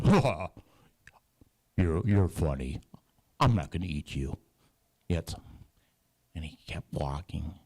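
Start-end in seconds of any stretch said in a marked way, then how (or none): 0.0-4.4 a hearty lion's laugh, then amused; a big lion chuckling at the mouse. Acted. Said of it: "the lion goes, laughs".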